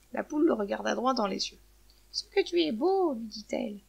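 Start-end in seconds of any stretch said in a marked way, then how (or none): 2.1-3.1 higher, slow admiring exclamation; smitten admiration. Acted. Hen admires the shark, lightly voiced infatuation. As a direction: draw it out adoringly.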